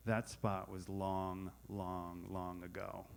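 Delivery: slow, fading "long, long, long ago"; drawn-out fading reply. Retold or imitated. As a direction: stretch each long and let it fade softly. Husband's slow teasing reply.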